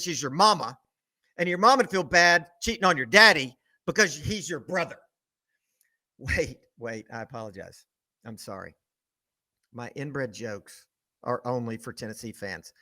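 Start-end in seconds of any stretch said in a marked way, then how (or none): 6.2-12.7 mock apology. Mock apology after insult joke.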